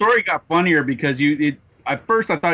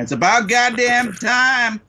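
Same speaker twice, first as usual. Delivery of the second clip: exasperated; 9 semitones higher, slower than usual. Retold or imitated. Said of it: "I'm here in the background going".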